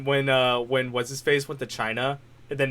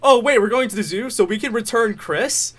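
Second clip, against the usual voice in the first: higher excited cartoon dad; Peter Griffin; 7 semitones higher, 3 dB louder than usual. Cartoon dad asking about a zoo trip, excited imitation. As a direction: pitch it up, stretch the question at the end. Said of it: "Peter's like".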